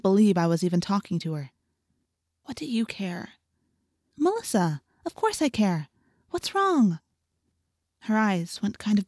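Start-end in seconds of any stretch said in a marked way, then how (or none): 2.4-3.3 soft, whispery retort; hurt rebuff. A narrator's reading. Crying Melissa rebuffs her friend, hushed and hurt. 4.2-7.0 high, anxious concern; concerned pleading. A narrator's reading. Girl asks her crying friend what's wrong, concerned.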